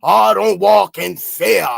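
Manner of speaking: slow, drawn-out mock of a slogan; mocking quote. Throwing a friend's slogan back at him, slow mockery. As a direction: parrot it back slowly to ridicule it.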